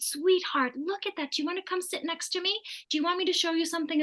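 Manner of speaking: put-on calming a crying toddler with a soft invitation; soft coaxing voice. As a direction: gently lure the upset girl over to sit.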